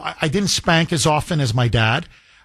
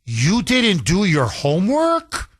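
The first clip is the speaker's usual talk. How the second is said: mock scolding; 4 semitones higher, slower than usual. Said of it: "I will look at him and say".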